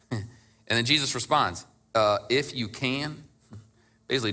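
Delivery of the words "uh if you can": slow, questioning disbelief on IF; a touch of frustrated echo; incredulous. Retold or imitated. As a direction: toss the words if you can back in mild disbelief. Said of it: "Jesus is actually frustrated".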